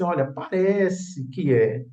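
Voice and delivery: slow, drawn-out tentative wording; hedged quote. Retold or imitated. Reference work conceding it only seems so, hedged. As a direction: imitate a cautious reference book, stretching the words. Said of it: "Se pelo menos a obra dissesse assim".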